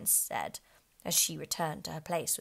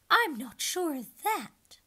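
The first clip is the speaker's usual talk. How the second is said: higher, louder slow retort; unicorn voice; 10 semitones higher, 7 dB louder, much slower than usual. A narrator's reading. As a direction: retort haughtily.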